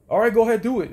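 high, loud mocking go-ahead; mock dismissive reply. Manager's dismissive reply, mimicked.

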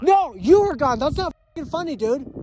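upset, scolding; angry. Real, not acted. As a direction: snap at him for scaring you. Angry quarrel after friend vanished.

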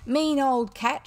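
put-on "Mean old cat" yelled high and loud; furious child yelling at the cook, high and loud; enraged shout. A narrator's reading. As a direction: bark "Mean old cat" like an angry boy general. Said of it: "shouted the enraged general".

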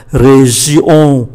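"Région" ending in a nasal on, no hard n; nasal vowel. Shown as a demonstration. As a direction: send the end of "Région" through the nose. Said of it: "âm mũi". ("Région" kết thúc bằng âm mũi)

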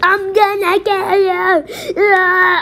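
laugh, then scream the threat; hammed-up villain laugh and yell.

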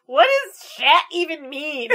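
drawn-out retold kid's question; baffled child. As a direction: imitate a puzzled kid with laughter creeping in.

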